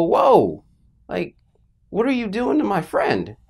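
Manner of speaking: put-on mildly alarmed kid objecting, pitch jumping up; alarmed protest. Child to dad stripping his beloved tree, alarmed protest. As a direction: protest on a friend's behalf, voice rising.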